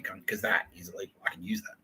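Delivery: hushed aside. Retold or imitated. Retelling his comeback, dropping to a hushed aside. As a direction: drop to a near whisper on the insult.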